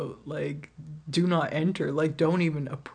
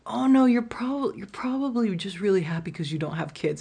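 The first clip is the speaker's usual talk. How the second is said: higher, louder scoffing imitation of him; mock dismissive guy; 4 semitones higher, 3 dB louder than usual. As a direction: brush her off like a know-it-all. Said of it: "And he goes".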